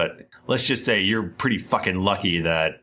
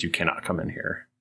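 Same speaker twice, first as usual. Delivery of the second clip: devil guard voice; 6 dB quieter than usual. Acted. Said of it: "stops and turns and says".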